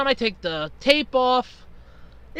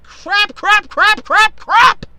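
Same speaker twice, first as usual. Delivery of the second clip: rapid frantic repeats, higher and louder; panicked cursing; 8 semitones higher, 7 dB louder, much slower than usual. Retold or imitated. Running to the circuit breaker, panicked cursing. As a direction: spit each crap out in a panic. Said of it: "So I'm like".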